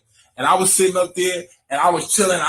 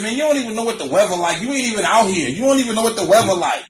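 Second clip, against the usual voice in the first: dismissive, higher voice, brushing him off; mock-annoyed retort; 6 semitones higher than usual. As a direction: wave him off with attitude.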